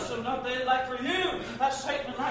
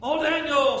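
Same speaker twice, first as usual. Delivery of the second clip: lamentable voice; 4 semitones higher, 10 dB louder, slower than usual. A narrator's reading. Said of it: "with a lamentable voice he said".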